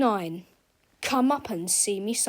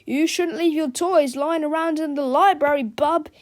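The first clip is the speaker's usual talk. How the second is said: sly; 5 semitones higher, 5 dB louder than usual. Acted. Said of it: "he said slyly".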